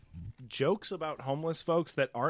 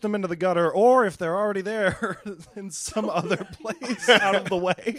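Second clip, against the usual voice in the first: loud, fast smug reporter voice; smug newsman; 4 semitones higher, 5 dB louder than usual. Retold or imitated. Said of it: "Kent Brockman quote".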